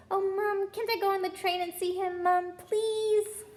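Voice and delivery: put-on high, pleading little girl; little girl begging. Ginny begs her mother to see Harry, high pleading. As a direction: beg your mum to let you go.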